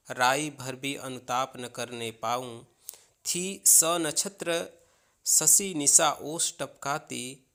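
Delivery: measured, even reading of Hindi verse; poem recitation. Acted.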